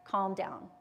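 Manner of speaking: put-on calm down said softly, as if to a scared child; soft soothing. Shown as a demonstration. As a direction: say calm down softly to settle yourself. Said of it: "turning the amygdala off".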